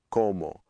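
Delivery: "como" with closed o in both syllables. Shown as a demonstration. Teacher echoing the Spanish example, closed o in "como". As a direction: say "como" as KOH-moh. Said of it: "that's the same sound".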